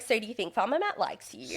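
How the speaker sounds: American Valley Girl style, lightly mocked; lightly put-on phony interviewer lilt; imitating fake producer. Producer asking contestant about Farmer Matt, lightly mock fake. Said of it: "like, really fake".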